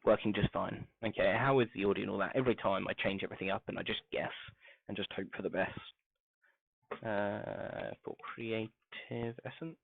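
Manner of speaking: muffled, as if behind a wall; through a wall. Real, not acted. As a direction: sound dull and distant, muffled mic. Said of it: "you're talking through a wall".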